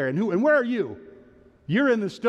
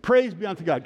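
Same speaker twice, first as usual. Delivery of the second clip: emphatic, heartfelt liturgical response; like meaning it; 3 semitones higher, 4 dB louder than usual. Shown as a demonstration. Preacher coaching congregation to recite, with conviction. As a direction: say it with more conviction. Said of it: "Say it like you mean it".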